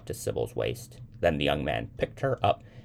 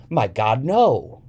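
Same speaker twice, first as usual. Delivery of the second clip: high, loud exclamation, climbing on "no"; mock astonishment; 9 semitones higher, 9 dB louder, slower than usual. A narrator's reading. Young man humoring Sybil's sighting, astonished. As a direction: exclaim in playful disbelief.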